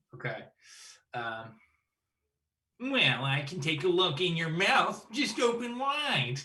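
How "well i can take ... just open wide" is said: high, slow, nerdy know-it-all bully voice. Ending a segment with an impersonation of the dentist character: imitating Hermey as nerdy bully. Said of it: "That sounds like a nerd who's trying to bully people".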